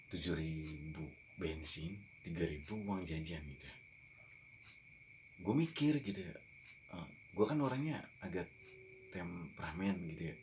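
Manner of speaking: talking while smoking a cigarette; words around a cigarette drag; cigarette in mouth. Real, not acted. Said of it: "sambil ngerokok gitu ya".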